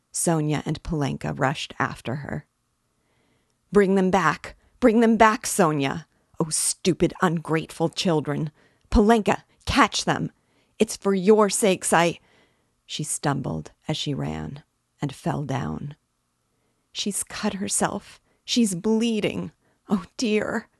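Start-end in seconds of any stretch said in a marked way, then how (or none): 3.7-12.2 high, loud calls for help; frantic cry. A narrator's reading. Weeping mother shouting to Sonia to catch the children, frantic. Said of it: "weeping and panting for breath". 16.9-20.7 high, slow, stricken voice; distressed cry. A narrator's reading. Sonia bending over the fallen woman, crying out in dismay. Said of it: "cried Sonia".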